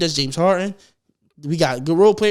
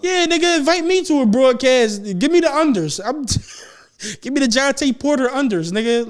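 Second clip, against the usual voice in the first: hyped mock pleading; 4 semitones higher than usual. Real, not acted. Begging for the insider bet, laughing.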